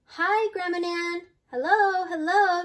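high, loud storybook hello; delighted greeting. A narrator's reading. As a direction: sing out an eager welcome. Greetings voiced on grandmother's arrival.

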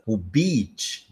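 "beach" with a long open "ee"; "beach" with a long, open ee sound; long beach vowel. Shown as a demonstration. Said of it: "a gente abre mais a boca, o som é mais, ah, longo".

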